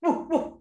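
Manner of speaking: imitated mocking chuckle; short acted "ho-ho" laugh; doggy's laugh. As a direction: chuckle as the storybook dog. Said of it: "The doggy came".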